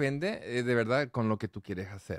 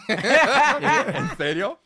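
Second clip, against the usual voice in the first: mock amazement; 11 semitones higher, 9 dB louder, much slower than usual. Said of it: "Y yo así".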